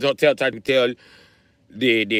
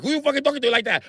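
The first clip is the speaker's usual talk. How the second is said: angry cop; 10 semitones higher, faster than usual. Retold or imitated. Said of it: "He's like".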